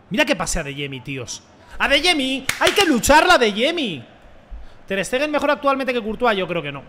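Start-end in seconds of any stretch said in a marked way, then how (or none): 1.8-4.0 urgent shout to a teammate; higher, loud call to keep fighting; grito al jugador. Real, not acted. (grito urgente al compañero)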